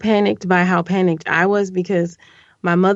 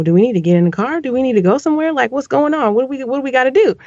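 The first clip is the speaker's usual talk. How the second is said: put-on alarmed boyfriend; 6 semitones higher, much faster than usual. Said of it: "my boyfriend is like".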